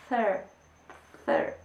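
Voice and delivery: "thir" said with the tongue between the teeth; sound demo. Shown as a demonstration. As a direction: show the th sound alone. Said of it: "no existe en español". ("thir" con la lengua entre los dientes)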